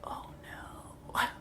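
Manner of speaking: very quiet, breathy, barely audible whisper. Recalling opening a package sent by Penguin with candy and a book, whispering.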